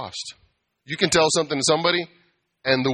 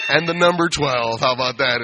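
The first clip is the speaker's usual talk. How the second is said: mock teacher voice; 4 dB louder than usual. Mocking customer like a child.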